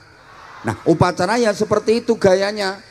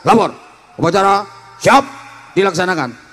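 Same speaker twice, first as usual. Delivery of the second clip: barked commander's report. Shown as a demonstration. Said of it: "berani bentak kepala".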